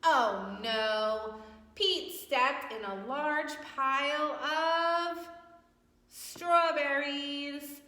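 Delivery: high, loud, slow dramatic gasp of a read; dramatic storytelling. A narrator's reading. Teacher to class, reading the twist dramatically. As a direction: play up the shock for the children.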